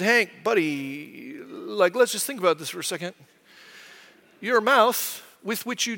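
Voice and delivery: put-on gently reasoning a frightened kid back to calm; calming dad. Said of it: "I tried to use a logical argument".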